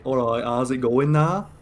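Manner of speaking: slow, drawn-out Dudley impression; Dudley accent. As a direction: imitate a broad Dudley accent. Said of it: "The Dudley accent is really bad".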